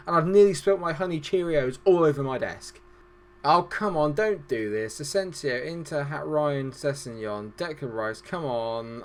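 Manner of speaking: ordinary delivery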